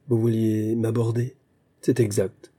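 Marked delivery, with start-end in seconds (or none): 1.8-2.5 coldly. Acted. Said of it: "dit-il froidement".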